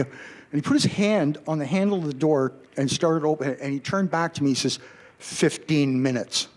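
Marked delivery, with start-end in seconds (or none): 5.2-6.5 slow, firm warning about the time limit; stern warning tone. Retold or imitated. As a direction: lay down the deadline like a bouncer. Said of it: "In that tone of voice".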